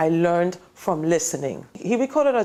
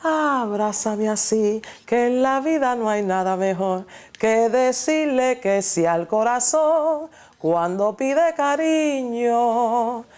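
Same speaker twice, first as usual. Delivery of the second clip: so tender; 3 semitones higher than usual. Retold or imitated. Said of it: "so tender".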